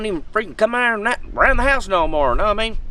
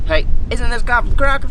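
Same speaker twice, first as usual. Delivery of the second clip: higher, louder voice of a curious viewer; imagined viewer asking; 7 semitones higher, 5 dB louder than usual. Retold or imitated. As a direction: play the fan who thinks he recognizes you. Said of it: "I know you're saying".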